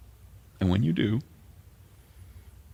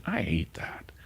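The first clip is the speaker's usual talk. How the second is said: tearful whisper. Real, not acted. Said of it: "I start to cry".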